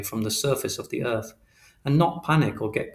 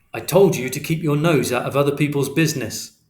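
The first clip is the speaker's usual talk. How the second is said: louder, stern fatherly warning; firm scolding; 3 semitones higher, 6 dB louder than usual. Acted. Father warning his son off other people's business, stern. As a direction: lay down the law.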